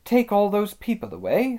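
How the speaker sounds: high, put-on girlish character voice; high-voiced girl complaining; impatient Susan. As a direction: pitch it well up, wishing they would leave. Susan wishing the people gone.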